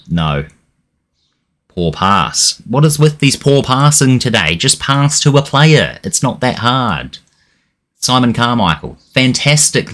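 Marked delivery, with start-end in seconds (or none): 2.7-7.2 exasperated. Real, not acted. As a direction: spell it out in disbelief. Fuming at poor passing.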